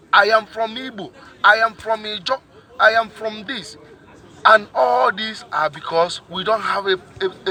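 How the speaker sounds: usual speaking voice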